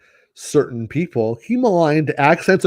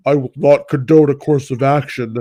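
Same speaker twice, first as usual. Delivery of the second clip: lightly lowered formal queen voice; mock the dubbed-down Padme line; a hint of modulated Padme. Imitating Padme's modulated trailer line, mildly. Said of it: "they modulated her voice down".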